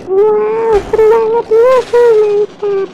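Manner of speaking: put-on thrilled kid cheering mid-flight; excited whooping. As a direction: whoop it up as the bike soars. Thrilled joyride in flying motorbike.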